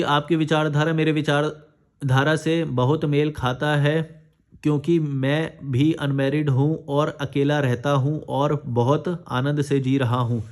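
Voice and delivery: slow, measured read-out; reading a comment aloud. Acted. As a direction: read it out slowly, phrase by phrase. Reads a viewer comment aloud. (Comment को धीरे-धीरे पढ़कर सुनाना)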